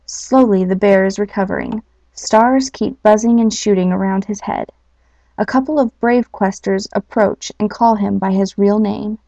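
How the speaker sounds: storybook reading voice; story narration. A narrator's reading. Host reading the quest story to listeners, storybook narration. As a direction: read the tale like a bedtime story.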